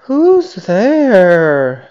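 high-pitched startled hare voice. A narrator's reading. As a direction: cry out high, as if woken suddenly. Sleepy hare startled in story.

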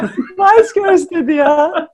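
slow and laughing; amused, teasing a friend. Real, not acted. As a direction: giggle through the line. Amused at the girl-group answer.

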